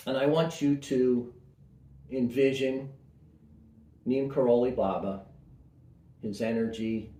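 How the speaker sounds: calm meditation voice with long pauses; guided meditation. Acted. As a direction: guide listeners gently inward, unhurried.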